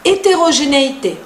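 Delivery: heterogénéité with silent h and closed é's; French heterogénéité, every E a clear é; French pronunciation. Shown as a demonstration. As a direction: say heterogénéité the French way, all five E's alike. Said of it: "las cinco E se pronuncian igual".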